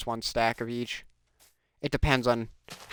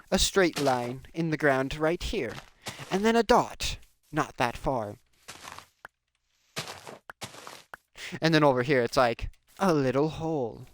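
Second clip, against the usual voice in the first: David Attenborough voice. Pretend. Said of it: "I'm talking like David Attenborough".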